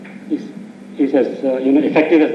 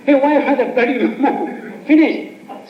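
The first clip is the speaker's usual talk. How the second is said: surprised friends; 8 semitones higher than usual. Retold or imitated. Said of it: "So people say".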